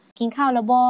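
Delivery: slow, careful Isan with บ่ at the end; Isan dialect. Shown as a demonstration. Teacher demonstrating the Isan way to ask about eating, slow Isan Thai. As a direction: model the Isan greeting slowly for a learner. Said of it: "ภาษาอีสานจะพูดว่า".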